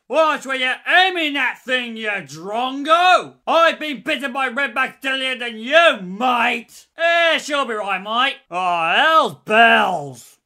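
broad Aussie larrikin soldier yelling catchphrases; a brash Australian digger barking lines in battle; Australian accent. Acted.

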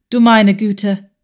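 slow, stunned exclamation; stunned gasp. A narrator's reading. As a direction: gasp it out in shock. Entsetzter Ausruf beim Erkennen.

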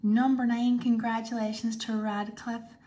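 loud cheerful winner call; excited announcement. Real, not acted. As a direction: shout the winner's name happily.

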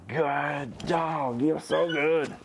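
whispered praise. Real, not acted. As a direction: hush the praise to keep her calm. Quiet praise to dog.

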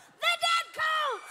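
high, loud, slow winner call; excited announcement. Acted. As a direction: belt the winner's name.

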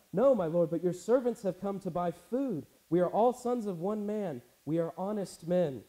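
freaked out. Acted. Accused brothers protesting to the Egyptian ruler, freaked out. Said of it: "they're freaked out".

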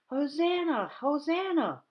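high, loud echoing praise; children shouting. Retold or imitated. Storyteller recalling the children in the temple, loud high shouts. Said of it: "I can still hear the children shouting".

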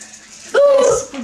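stretched out slowly; slow drawn out. Pretend. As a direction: drag each word out. Repeats chant.

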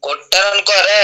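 loud angry threat; shouting. Real, not acted. Guild member yelling a threat at the YouTuber, loud. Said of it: "ఎందుకు అరుస్తున్నావు?".

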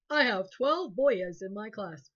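put-on "boyas" said as BOY-uhs, slow and loud; wrong pronunciation. Shown as a demonstration. Teacher showing the class the wrong plural, slow loud boyas. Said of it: "I have no clue what that is".

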